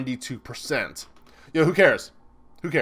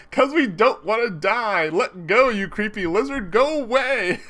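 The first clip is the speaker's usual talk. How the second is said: lightly voiced panicked yell, a bit higher; mock yell; 6 semitones higher, 3 dB louder than usual. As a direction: play the scared pair yelling to get away. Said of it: "And they yell".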